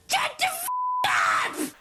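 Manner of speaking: laughing, strangled high yelp then a drop; half-laughed squeal of disbelief; exasperated squeal cut off; mock exasperated outburst.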